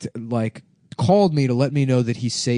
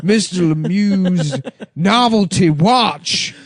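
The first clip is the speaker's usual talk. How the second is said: pompous lawyer voice; 6 semitones higher, 4 dB louder, much slower than usual. Pretend. Mock lawyer, slow and loud.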